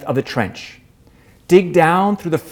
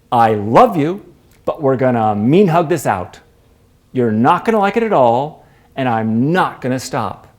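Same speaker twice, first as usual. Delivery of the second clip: mock mean hug; 2 semitones lower than usual. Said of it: "It's kinda like a really mean hug".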